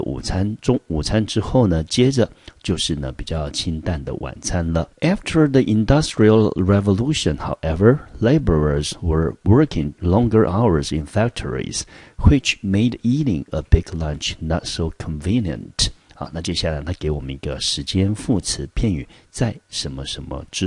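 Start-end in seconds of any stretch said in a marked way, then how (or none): 5.0-15.9 clear, measured textbook reading; reading the text aloud. Shown as a demonstration. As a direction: read the passage out for the class. Reads the English text aloud. (朗读课文)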